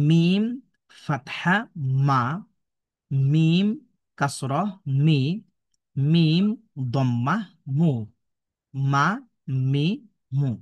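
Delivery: measured letter-by-letter chant with long drawn letter names; spelling drill recitation. Shown as a demonstration. Teacher models Arabic letters for online learners, drill recitation. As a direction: recite each syllable separately, with pauses.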